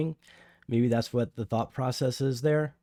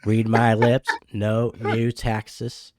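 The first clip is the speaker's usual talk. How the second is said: president impression; 2 semitones lower, 4 dB louder, much slower than usual. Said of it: "impersonation of every president".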